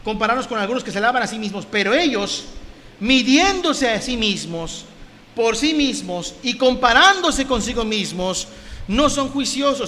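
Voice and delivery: deliberate Bible declamation; scripture reading. Acted. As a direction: stretch out each phrase for the congregation. Reads scripture aloud.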